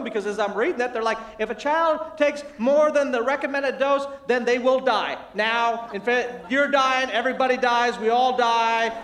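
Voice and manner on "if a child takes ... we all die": mock warning label, loud and insistent; hammed-up prophet of disaster; doom and gloom. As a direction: pile up dire warnings with exaggerated force. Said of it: "It's doom and gloom".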